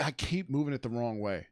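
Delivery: talking while chewing gum; words around a wad of gum. Real, not acted. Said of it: "I have gum in my mouth".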